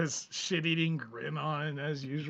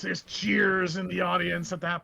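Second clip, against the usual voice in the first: usual speaking voice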